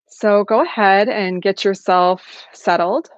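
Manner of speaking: calm, unhurried meditation guidance with long pauses; guided meditation. Acted. Facilitator settling an online group into practice, calm guided meditation. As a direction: gently settle listeners into the practice, leaving space between phrases.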